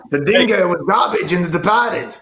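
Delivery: hammed-up mock Australian; joking Aussie impression; Australian accent. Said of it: "Tell me that's not Australian".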